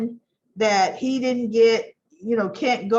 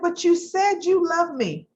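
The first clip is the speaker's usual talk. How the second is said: higher retold wounded protest; a hint of heartbroken pleading, pitched up; mock hurt protest; 7 semitones higher than usual. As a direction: lightly imitate a jilted woman. Sally protesting the breakup, retold.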